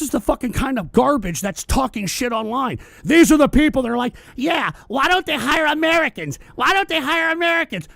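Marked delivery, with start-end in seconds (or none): 4.3-7.9 higher, softer mocking whine; mocking complainer. Streamer mimicking people who complain about jobs, mocking higher voice. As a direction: parody the whiners with a sneer.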